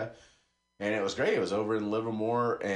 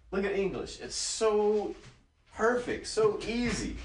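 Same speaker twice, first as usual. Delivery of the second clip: much higher voice, mock Chinese accent; imitated Chinese accent; 11 semitones higher than usual. Tutor saying English is easy, imitated Chinese accent. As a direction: put on the tutor's Chinese accent, pitched high. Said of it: "as I use the accent".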